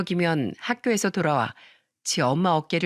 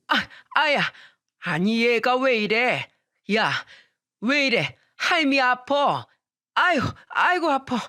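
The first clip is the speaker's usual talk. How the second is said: higher, acted old woman crying out in pain; imitating a hurt grandmother; 5 semitones higher than usual. Grandmother hit by child. (맞아서 아파하는 할머니 흉내)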